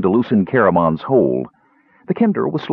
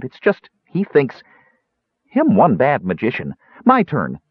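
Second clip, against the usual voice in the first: higher voice in broken speech; small dwarf character; 3 semitones higher than usual. Acted. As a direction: play a sure-of-herself little gully dwarf.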